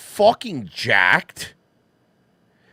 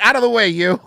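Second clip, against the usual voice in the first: high, louder playful shove-off; mock brush-off; 7 semitones higher, 7 dB louder than usual. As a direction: wave him aside in play. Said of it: "But, like, complete".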